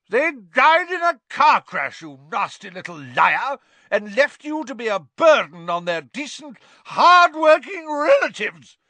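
very high, loud furious scream; screaming Aunt Marge. A narrator's reading. Aunt screaming at Harry, very high and loud. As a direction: scream it in fury. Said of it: "screamed Aunt Marge".

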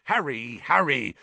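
a touch of impatience, rising; impatient. Acted. Teacher dismisses Harry, mildly impatient. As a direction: chide him lightly. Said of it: "shaking his head impatiently".

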